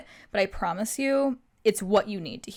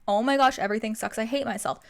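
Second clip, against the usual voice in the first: mock whiny self-pity. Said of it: "playing the victim and the pity card".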